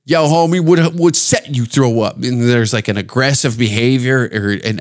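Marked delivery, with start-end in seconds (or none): 0.0-2.2 lightly imitated South Central Los Angeles accent. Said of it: "South Central Los Angeles black guy's".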